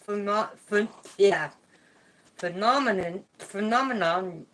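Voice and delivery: lisping without front teeth; struggling through the word toothless; missing front teeth. Real, not acted. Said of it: "I cannot say words like that without my teeth".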